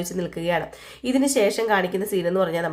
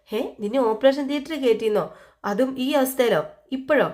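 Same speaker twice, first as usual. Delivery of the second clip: higher, climbing disbelieving questions; shocked disbelief; 5 semitones higher than usual. Retold or imitated. Husband hears his wife was sent into surgery, shocked. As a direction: recoil at the news, voice rising. Gautham shocked by Nanda's news.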